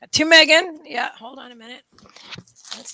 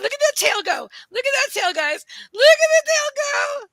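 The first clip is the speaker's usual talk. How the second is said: high squeal building louder; excited squeal; 11 semitones higher, 5 dB louder than usual. Real, not acted. Owner shows viewers the wagging tail, thrilled. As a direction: point it out in rising delight.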